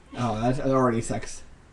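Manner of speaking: ordinary talk, nothing marked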